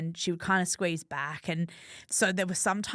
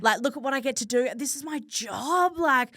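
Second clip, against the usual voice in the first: higher, bubbly gushing about a cool life; excited gushing; 5 semitones higher than usual. Retold or imitated. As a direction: gush like you can't believe your luck. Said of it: "being like".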